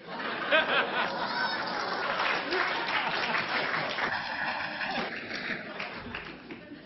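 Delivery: long rising audience laughter; the crowd roars with laughter. Real, not acted. Audience laughs after rant.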